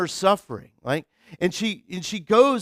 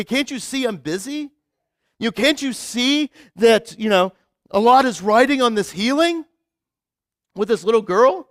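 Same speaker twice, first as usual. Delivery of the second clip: mock aggressive Jesus; 3 semitones higher, 5 dB louder than usual. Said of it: "almost kind of aggressive".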